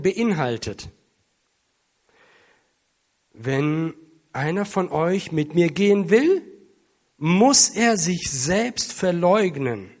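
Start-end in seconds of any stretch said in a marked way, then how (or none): 3.3-9.9 loud, measured proclamation of scripture; solemn scripture reading. Real, not acted. Preacher reads Jesus' words to the congregation, loud solemn proclamation. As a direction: read the verse out with weight and deliberate pauses.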